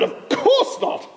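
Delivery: high breathy laugh through the words; laughing reply. Retold or imitated. Rabbi voicing the archbishop, laughing through his answer.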